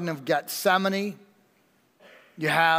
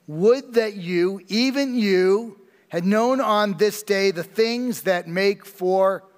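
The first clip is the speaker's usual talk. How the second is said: slow, pleading lament, somewhat raised; slow aching plea, a touch louder; Jesus lamenting over the city; 3 semitones higher, 3 dB louder, slower than usual. Acted. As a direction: draw each phrase out like a grieving plea. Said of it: "And what did he say?".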